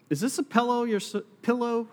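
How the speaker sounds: Southern hick pillow, pillow said like PELL-oh; hick accent. Real, not acted. Pastor asking the crowd about a pillow, Southern hick accent slipping out. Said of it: "My hick accent coming out".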